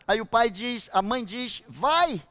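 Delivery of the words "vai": put-on bright, encouraging "Vai!" to a child, a bit louder; a parent happily letting the child jump in; joyful go-ahead with a lift; cheerful permission. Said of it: "E a criança tá feliz, porque vai".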